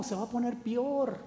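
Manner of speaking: "peor" said as "pior", ranch style; ranch pronunciation. Retold or imitated. Preacher imitating his home ranch, saying "peor" as "pior". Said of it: "como dicen en mi rancho".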